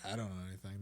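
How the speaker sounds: hushed whisper. Real, not acted. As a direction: whisper it like a secret. Joking he knows nothing.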